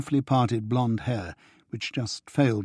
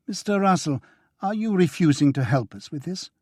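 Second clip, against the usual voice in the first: a hint of a stern agent pressing, higher on Russell; pointed challenge; 7 semitones higher, 3 dB louder than usual. A narrator's reading. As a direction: demand an answer from him.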